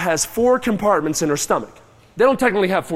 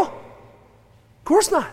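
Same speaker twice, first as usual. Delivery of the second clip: drawn-out scoff; 9 semitones higher, much slower than usual. Real, not acted. Rhetorical answer, drawn out.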